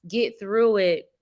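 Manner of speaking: ordinary delivery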